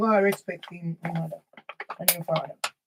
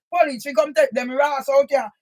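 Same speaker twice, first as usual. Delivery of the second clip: shouted threat, raised voice; angry shout. Real, not acted. Threatening the neighbours with police, angry shout. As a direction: yell it at the people upstairs.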